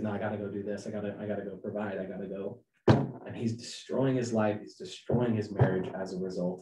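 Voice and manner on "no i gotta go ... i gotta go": brushing her off. Retold or imitated. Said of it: "he's like".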